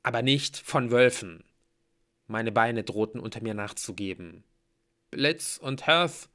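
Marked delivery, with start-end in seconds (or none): 5.1-6.3 slow, higher, frightened address; trembling voice. A narrator's reading. Hero addresses his friends, voice trembling. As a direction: falter over the names in fear. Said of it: "meine Stimme zitterte".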